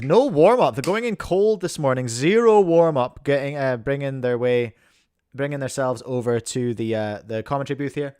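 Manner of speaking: upbeat play-by-play host voice; sports commentator. Acted. Commentator hyping the match to the stream. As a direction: hype up the cubing match like live TV.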